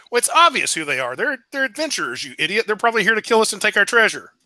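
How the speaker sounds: fast, scornful second giant head; mock the other head as an idiot; two bickering giant voices. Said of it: "his other head says".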